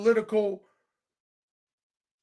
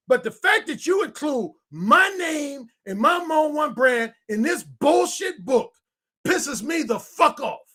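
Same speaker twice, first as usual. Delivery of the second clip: angry; 4 semitones higher than usual. Real, not acted. Anger at name in the book.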